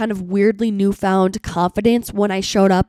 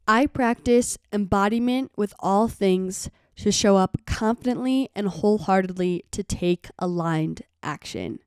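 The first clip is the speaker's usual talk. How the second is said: slower, softer, fading to a hush; slow affirmation; 5 dB quieter, slower than usual. Shown as a demonstration. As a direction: speak it like a calm mantra. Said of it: "Kind of a lengthy one".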